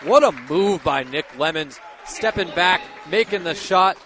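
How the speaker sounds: loud, impressed color commentary; excited admiration. Real, not acted. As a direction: exclaim over a great play. Analyst admires the shot just made.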